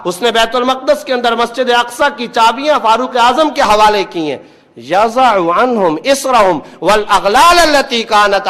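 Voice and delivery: emphatic religious oratory; preaching. Real, not acted. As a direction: drive each phrase home like a preacher. Preaches to a congregation. (پُرزور واعظانہ انداز)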